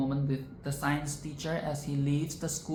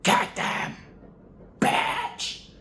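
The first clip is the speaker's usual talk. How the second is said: awed whisper; 4 semitones lower than usual. Real, not acted. Awed reaction to teacher's candour.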